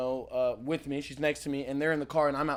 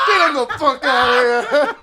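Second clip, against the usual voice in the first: retold shout; 7 semitones higher, 9 dB louder than usual. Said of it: "while he's body surfing him".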